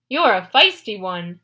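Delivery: loud booming monster voice; a giant's loud taunt; deep bellow. Acted. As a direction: bellow it with gruff amusement. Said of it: "a deep voice bellowed".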